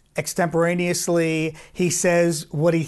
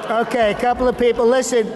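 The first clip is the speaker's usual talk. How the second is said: higher, fast Trump crowd talk; 4 semitones higher than usual. Acted. Teasing a Mexican American crowd, a higher fast Trump voice. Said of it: "put that unique voice to work".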